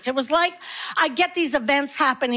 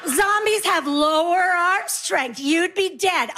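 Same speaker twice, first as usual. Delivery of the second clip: put-on know-it-all kids; 4 semitones higher, slower than usual. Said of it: "they're like".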